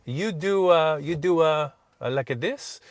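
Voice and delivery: put-on light Italian accent, halting and rising; a hesitant Italian toll clerk asking in broken English. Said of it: "I can do the Italian accent".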